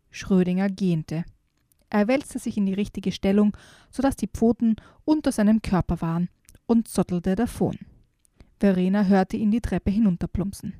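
put-on lively storytelling voice for a children's book; story narration. A narrator's reading. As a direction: read it like an audiobook for kids. Reads a children's book aloud. (Vorleserin einer Kindergeschichte)

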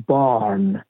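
بارن with long open A and no R; non-rhotic barn, the R left out; silent R. Shown as a demonstration. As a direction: say بارن as "baan". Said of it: "در واقع ر خونده نمیشه".

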